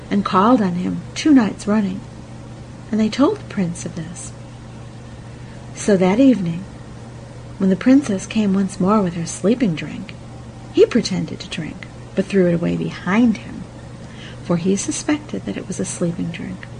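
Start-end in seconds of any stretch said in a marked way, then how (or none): none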